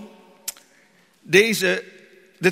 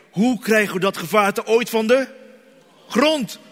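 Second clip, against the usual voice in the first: amazed wonder; 3 semitones higher than usual. Retold or imitated. Imagined amazed thought.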